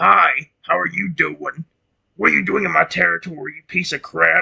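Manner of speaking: rough, gruff, pushed man voice. Showing how wrong a man voice would sound for Lugia: Lugia in a man voice. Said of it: "the only good man voice I can make".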